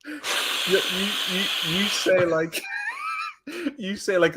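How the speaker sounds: laughing through words; cracking up mid-sentence. Real, not acted.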